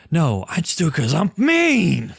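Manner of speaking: mock villain relishing his own meanness; villain's boast. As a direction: stretch the final word up high. Voicing the villain's self-talk, rising climax.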